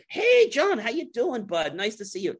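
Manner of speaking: high-pitched, over-friendly salesman hello; hearty greeting. Retold or imitated. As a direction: burst in with a gushing welcome. Sales rep's retold hearty greeting.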